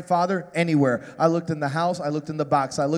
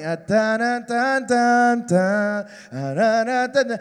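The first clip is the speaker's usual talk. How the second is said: slow motion run; 3 semitones higher, 4 dB louder, slower than usual. Retold or imitated. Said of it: "like a slow motion movie".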